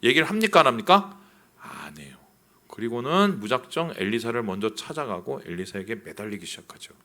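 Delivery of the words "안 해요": whispered answer to own question. Acted. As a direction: breathe the answer almost silently. (속삭이듯 답하기)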